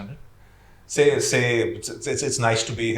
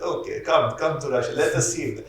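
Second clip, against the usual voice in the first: put-on Russian accent; 3 semitones higher than usual. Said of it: "How's my Russian accent".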